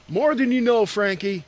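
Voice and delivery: Keanu Reeves. Retold or imitated. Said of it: "You sounded just like Keanu Reeves".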